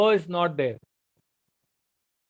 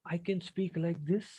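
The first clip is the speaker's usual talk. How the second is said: very quiet; 10 dB quieter than usual. Shown as a demonstration. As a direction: speak barely above a breath. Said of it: "we also have a volume".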